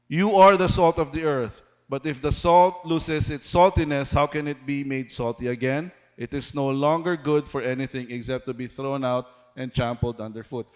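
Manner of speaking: measured, rising-and-falling Bible reading to the church; scripture reading. Acted. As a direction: read the verses like a preacher proclaiming them. Reads verse thirteen aloud.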